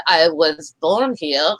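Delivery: put-on a clumsy French accent, slow and drawn out; bad French accent. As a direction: play the Canadian immigrant in a weak French accent. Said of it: "my French accent sucks".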